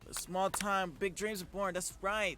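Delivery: booming trailer voice; dramatic announcer. Acted. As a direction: read it like a movie trailer. Reading game text dramatically.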